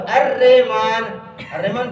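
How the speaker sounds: الرحمن as "ar-RAY-maan"; wrong pronunciation. Retold or imitated. Teacher mimicking how students read it, wrong pronunciation. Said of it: "ادھر کیا پڑھتے ہو".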